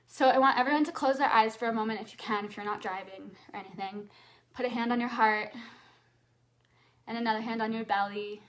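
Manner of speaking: brisk instructions for a grounding exercise; guided exercise. Acted. Coach guiding audience into a grounding pose, brisk instruction. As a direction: lead the audience quickly through the pose. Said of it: "leads a grounding exercise".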